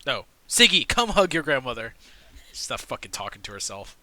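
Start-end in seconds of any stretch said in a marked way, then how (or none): 0.5-1.9 put-on sarcastic old woman.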